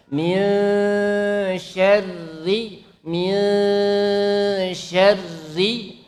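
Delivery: syarri, slow, the r barely trilled; syarri with a thin r. Shown as a demonstration. Teacher modelling recitation slowly for students, thin r. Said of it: "Silakan dibaca".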